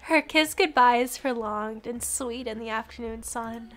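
low, soft storytelling read; story narration. Acted. Reads game narration.

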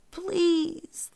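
high-pitched, drawn-out plea; pleading. A narrator's reading. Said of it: "the Brahmin pleaded".

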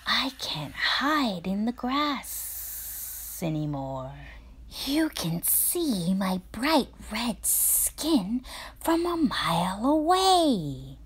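half-whispered snake hiss. Acted. Snake complaining about his red skin, hissing. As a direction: hiss out the grievance. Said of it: "hissed Snake".

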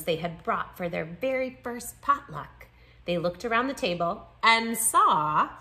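expressive picture-book read-aloud; story narration. A narrator's reading. Narrator telling children how new friends share foods, story narration. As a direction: read with lively, clear phrasing for children.

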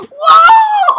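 very high, loud whoa; high-pitched squeal of delight; thrilled shriek. Real, not acted. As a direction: scream as if launched into the air. Launched on jumping dolphin.

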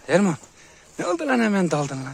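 high, loud reprimand; scolding the dog. Real, not acted. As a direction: call the dog out sharply.

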